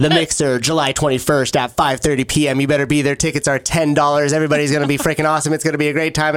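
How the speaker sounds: lightly hammed auction pitch; auctioneer voice. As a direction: sell it like an auctioneer. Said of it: "I don't know why I'm talking like an auctioneer".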